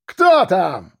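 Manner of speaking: barked from behind door. A narrator's reading. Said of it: "рявкнули за дверью".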